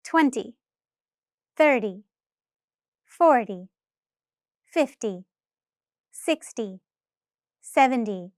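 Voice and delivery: tens said quickly with short gaps. Shown as a demonstration. Teacher showing the reduced T sound at speed. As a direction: move briskly down the tens. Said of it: "as I say the numbers faster".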